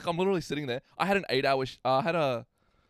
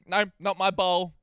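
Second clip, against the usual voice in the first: put-on a slow, higher, louder little kid voice whining no; whiny kid refusal; 6 semitones higher, 9 dB louder, slower than usual. Babysitter voices the kid refusing his bowl, whiny. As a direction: drag it out like a stubborn toddler.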